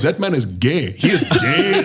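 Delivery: mock drunk heckler in an Indian accent. Heckler insulting Brendan, in a mock Indian accent. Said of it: "he had this Indian accent".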